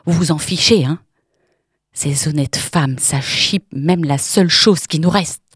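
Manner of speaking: bitter sneer. Acted. Woman sneering and accusing.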